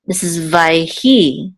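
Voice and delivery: vayhi with the stress on hi; stress on last syllable. Shown as a demonstration. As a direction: lean on the end of vayhi, vay-HI. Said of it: "The accent is on the last syllable".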